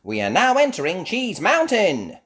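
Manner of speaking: high, loud tour announcement; announcing guide. Acted. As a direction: announce like a ride host. Miss Rabbit announces cave.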